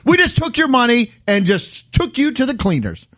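rising into a lively rant; mock ranting. Real, not acted. Ranting to friends, mock outraged. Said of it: "good rant".

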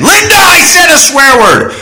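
mock-confession yell to Linda; calling out. Real, not acted. Calls out to Linda jokingly.

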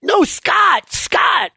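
very high-pitched shouted correction; exasperated shout. Acted. Hurley correcting the name of the dead man, exasperated shout. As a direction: holler the right name at them.

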